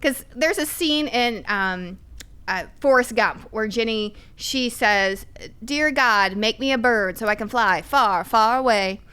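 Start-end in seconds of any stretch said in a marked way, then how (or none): 5.6-9.0 lightly put-on Southern accent; a gentle attempt at Jenny's Southern accent. Podcast guest quoting Jenny from Forrest Gump, light Southern accent. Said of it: "That's my best Southern accent".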